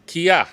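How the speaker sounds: Kia said clearly while pointing; Cree word demo. Shown as a demonstration. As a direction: model Kia for the class to repeat.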